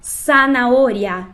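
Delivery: Zanahoria slow with a single tapped R; soft R. Shown as a demonstration. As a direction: tap the R of Zanahoria lightly, slowly. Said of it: "E agora com o R fraco".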